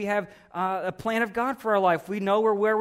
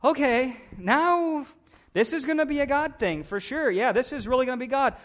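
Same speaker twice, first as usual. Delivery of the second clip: lightly voiced Gideon getting pumped up; excited Gideon; 4 semitones higher than usual. Gideon, left with few men, tells God this will be a God thing, excited and higher. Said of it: "He's like".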